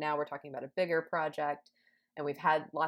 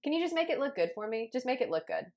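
much higher, breezy client request; high mock client voice; 7 semitones higher than usual. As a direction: toss it off like a careless client. Voicing a demanding client.

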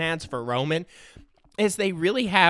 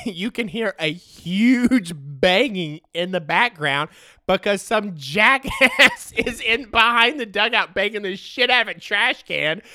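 laughing through the words, louder and slower; 6 semitones higher, 5 dB louder, slower than usual. Real, not acted. Podcaster telling listeners about the trash can, laughing. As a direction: giggle your way through the story.

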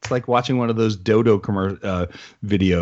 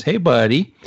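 friendly greeting; 4 semitones higher, 3 dB louder than usual. Retold or imitated. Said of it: "Justin and I is".

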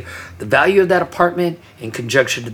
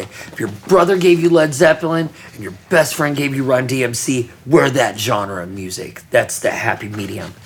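puffed up proud. Retold or imitated. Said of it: "in a very proud voice".

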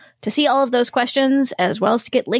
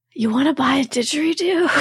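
quoting Lola; 2 semitones higher than usual. Retold or imitated. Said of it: "Lola, where she says".

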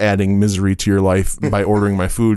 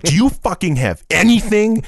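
mock angry customer; 9 semitones higher than usual. Retelling a rude customer.

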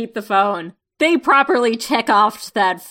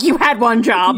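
loud mock-exasperated jab; exasperated scolding; 3 semitones higher, 6 dB louder than usual. Host voicing Sharon scolding distracted Bucky, loudly exasperated. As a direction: imitate a fed-up teammate, louder.

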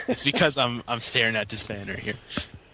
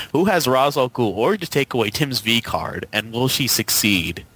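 after laughing hard. Real, not acted. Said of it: "I can't even say this sentence".

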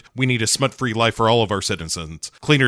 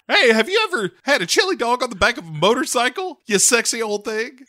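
much higher, sleazy come-on voice; lecherous granny chaser; 12 semitones higher than usual. Retold or imitated. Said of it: "granny chaser where he's like".

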